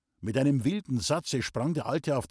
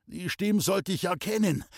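gasped out; 8 semitones higher than usual. A narrator's reading. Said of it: "keuchte Lenel".

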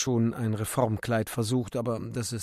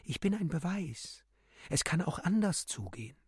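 bird's cry; 5 semitones higher, 6 dB quieter than usual. Acted. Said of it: "Der Vogel schrie in Graurot".

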